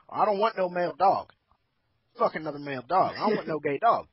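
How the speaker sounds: put-on light Southern country accent. Dog owner down south, lightly voiced Southern country accent. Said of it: "do it in a country accent".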